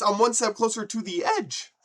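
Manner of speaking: high, loud demonstration of the right lyric; emphatic lyric correction. Shown as a demonstration. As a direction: belt the line out, landing on "edge". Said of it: "Those ain't the words".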